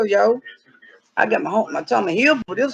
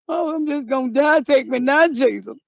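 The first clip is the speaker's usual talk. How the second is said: mock despair; 3 semitones higher than usual. Mock despair over lost dog.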